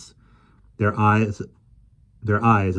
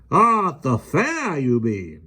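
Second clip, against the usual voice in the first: insisting; 8 semitones higher, 4 dB louder, slower than usual. A narrator's reading. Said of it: "Mister Mudge insisted".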